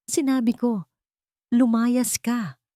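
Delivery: husband ordering Carmela out, in a mild slow shout. Acted. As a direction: drag the order out, a mild yell. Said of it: "sigaw ni Kael".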